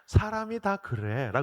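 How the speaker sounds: slow deadpan repeat. Retold or imitated. Pastor repeating the child's line to the congregation, slow. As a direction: let the punchline land slowly.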